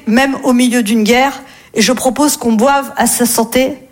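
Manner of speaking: quoting abbé Pierre. Retold or imitated. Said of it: "C'est l'abbé Pierre".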